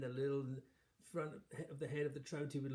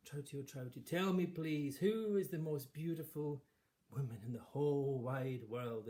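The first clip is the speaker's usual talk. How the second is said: raised, slower, insistent questioning; queen asking the fish; 3 semitones higher, 5 dB louder than usual. Acted. Vain queen asking the fish, raised and slow. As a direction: demand the answer grandly.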